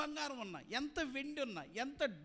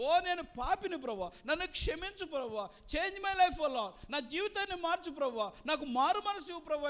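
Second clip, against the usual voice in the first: anguished plea to the Lord; 4 semitones higher, 5 dB louder than usual. Acted. Voicing a repentant woman's prayer.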